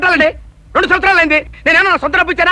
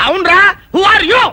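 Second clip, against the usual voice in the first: slow shout; 4 semitones higher, slower than usual. Acted. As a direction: bellow the question at him slowly. Suddenly turns on the creditor.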